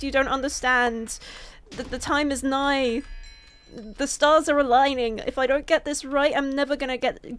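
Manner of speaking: mild mock desperate pleading to the PC man; rehearsing a plea to the PC man, lightly desperate; rehearsed desperate plea. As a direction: beg the PC man, hammed up a little. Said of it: "that's basically what I'm planning to say".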